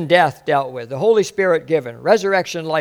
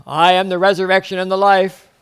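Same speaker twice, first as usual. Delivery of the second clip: a lightly voiced, solemn intoning priest; formal priest voice; 3 semitones higher, 4 dB louder than usual. Preacher imitating the Anglican priest, a hint of solemn intoning. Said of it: "this voice says it, and I just don't do it right".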